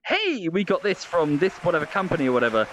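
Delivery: lightly hammed-up product plug; hyped streamer pitch. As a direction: parody an excitable streamer's ad read. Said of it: "weird vocalizations and bouncing up and down".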